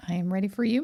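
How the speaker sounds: ordinary talk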